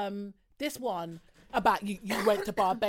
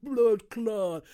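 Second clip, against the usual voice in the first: louder put-on Jamaican exclamation; mocking Jamaican accent; 6 dB louder than usual. Retelling the girl's interjection, mock Jamaican accent. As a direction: imitate someone badly putting on Jamaican. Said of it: "you're actually mocking Jamaican people".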